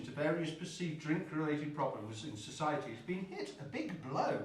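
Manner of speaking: talking through a mouthful of food; chewing while reading the news; mouth full. Real, not acted. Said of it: "I'm eating with my mouth full".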